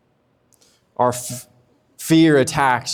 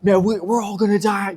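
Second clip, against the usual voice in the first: higher-pitched mock panic; lightly acted alarm, pitched up; 6 semitones higher than usual. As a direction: play a sailor alarmed in a storm. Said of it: "imagine this just crazy scene".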